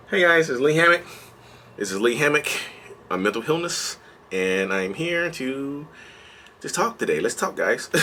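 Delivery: a lightly put-on upbeat host voice; masked cheerful intro. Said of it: "I'm put my mask on".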